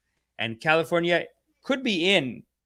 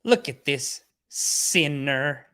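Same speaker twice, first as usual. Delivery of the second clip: very slow drawn-out sneer; mock preacher scorn; 2 semitones lower, much slower than usual. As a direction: stretch each word like a sermon. Repeats the line drawn out.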